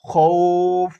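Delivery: খৌফ with a long ou, ending on the f; pausal stop. Shown as a demonstration. Teacher shows the waqf reading খৌফ. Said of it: "ওয়াকফ করলে আমরা যে পড়ব".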